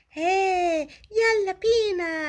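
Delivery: excited cheer. Acted. Kids cheer going to the water.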